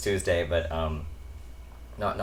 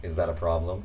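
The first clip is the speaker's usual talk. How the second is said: spoken aloud; 4 semitones lower than usual. Retold or imitated. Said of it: "then out loud I just said".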